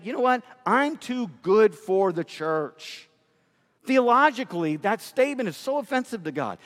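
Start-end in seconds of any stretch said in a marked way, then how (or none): 0.0-3.1 slow, drawn-out smug line; smug mock quote. Pastor mocking the proud churchgoer, slow and smug. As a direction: lay on the arrogance slowly. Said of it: "They're basically saying".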